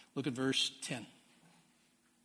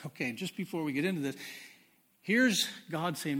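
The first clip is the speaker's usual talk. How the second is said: usual speaking voice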